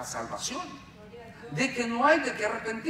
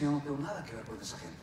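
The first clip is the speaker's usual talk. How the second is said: voice of God; 11 semitones lower, 6 dB quieter, faster than usual. Retold or imitated. Preacher voicing God.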